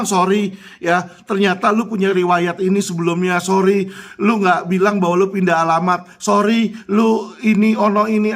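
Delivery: mock insurer excuse. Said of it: "asuransi cuma bilang".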